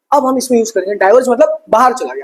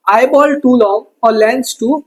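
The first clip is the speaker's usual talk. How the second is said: dictation; 3 semitones higher, much slower than usual. Shown as a demonstration. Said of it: "dictating notes".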